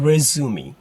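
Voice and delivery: "resume" as rez-oo-mee, three syllables; American pronunciation. Shown as a demonstration. Teacher showing how it is pronounced, American pronunciation. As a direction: end "resume" on a sounded "me". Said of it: "American is pronounced".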